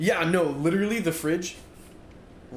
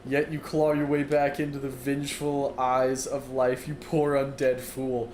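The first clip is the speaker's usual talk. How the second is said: dramatic dark recital. Acted. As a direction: intone it like a doomed epic narrator. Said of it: "'Cause that sounds sick".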